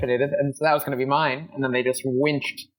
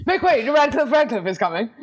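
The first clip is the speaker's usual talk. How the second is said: herald announcing; 9 semitones higher, 3 dB louder than usual. Pretend. Heralding the oil baron's arrival.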